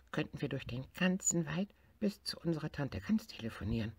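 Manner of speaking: picturing calls across the forest; little tiger voice. Acted. Tiger tells bear about calling aunt goose.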